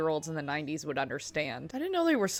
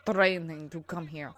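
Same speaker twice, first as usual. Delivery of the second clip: imitated rolled-R accent; 3 semitones lower than usual. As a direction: roll every R hard in a mock accent. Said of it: "He rolls the R's very hard".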